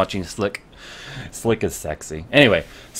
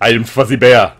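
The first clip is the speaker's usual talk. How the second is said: Fuzzy Bear voice; 7 dB louder than usual. Pretend. Joking bear persona.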